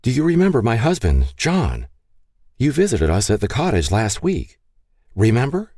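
mildly tender, lifted pitch; gentle calling. A narrator's reading. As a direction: coax a confused woman kindly. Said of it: "Catherine called softly to the woman".

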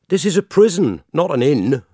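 high, loud gatekeeper bark; shouting doorkeeper. Acted. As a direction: call out harshly through the door. Doorkeeper shouts through panel.

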